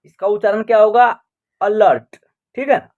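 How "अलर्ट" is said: "अलर्ट" opening on a short 'uh'; teacher's model "अलर्ट", A as short 'uh'; short 'uh' sound. Shown as a demonstration. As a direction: sound out "अलर्ट" with a brief schwa first. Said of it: "ए का उच्चारण अ हो रहा".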